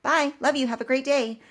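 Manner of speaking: sing-song reply. Retold or imitated. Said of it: "And I go".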